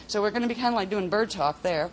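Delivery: usual speaking voice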